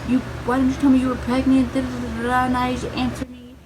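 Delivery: mock a mother's yelling tirade; yelling mom. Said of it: "over my head yelling".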